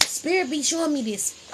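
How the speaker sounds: lightly altered spirit-led voice, a touch apart from her own; channeling Spirit voice. Real, not acted. Telling viewers what Spirit shows, lightly changed voice. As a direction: let Spirit speak through you, mildly. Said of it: "I don't be trying to talk like this".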